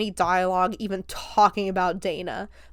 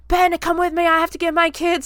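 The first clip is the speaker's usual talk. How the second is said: higher, louder retold panicked mom; panicked plea; 9 semitones higher, 5 dB louder than usual. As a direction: imitate a mother pleading urgently for help. Voicing panicked mom seeking help.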